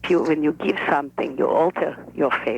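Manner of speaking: a lightly voiced shy old Russian grandmother; other grandmother. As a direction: speak as the careful, reserved grandmother. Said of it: "This is the other grandmother speaking".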